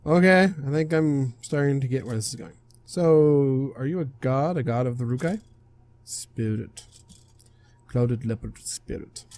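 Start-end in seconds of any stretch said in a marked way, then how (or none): 6.0-9.2 slow, subdued spirit voice; clouded leopard spirit. Acted. Spirit explains what he is to the player, slow and halting. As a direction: answer quietly in halting, accented English. Spirit corrects being called a god.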